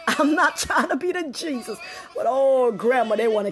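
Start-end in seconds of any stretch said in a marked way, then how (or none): 0.1-1.8 laughing through I'm not trying to be the Jesus. Real, not acted. Host repeating his line to Grandma, laughing. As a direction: let the laugh spill into the line.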